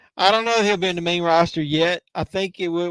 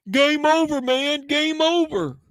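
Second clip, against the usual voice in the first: much higher, mock panicked; high-pitched; 11 semitones higher, slower than usual. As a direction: jump way up in pitch. Repeats game over, pitched up.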